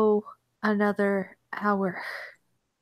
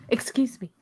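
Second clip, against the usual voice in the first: incredulous, forceful stage whisper; whispered outrage; 3 semitones higher, 4 dB louder than usual. Pretend. Listener balks at anti-metal plot, in outraged whisper.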